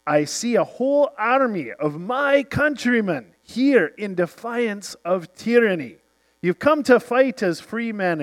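lightly voiced heroic Scottish leader; rallying speech. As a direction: rouse the army like William Wallace over the music. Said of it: "And he says".

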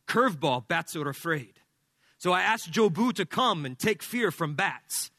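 bad Cuban accent, short halting phrases; terrible Cuban accent. Cuban ballplayer explaining his voodoo to teammates, terrible Cuban accent. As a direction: put on a clumsy Cuban accent. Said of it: "my terrible accent".

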